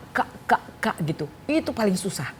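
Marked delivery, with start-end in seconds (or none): 0.1-0.9 quick repeated "K, K, K" sounds; drilling K. Shown as a demonstration. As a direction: fire off "K" fast as a speech drill. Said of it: "Saya ngajari bahasa K". ("K" diulang cepat seperti latihan wicara)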